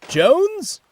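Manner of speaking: high loud call across the yard. A narrator's reading. Manager calling for Jones from the office, calling out. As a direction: shout for him from the office. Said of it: "called from his office".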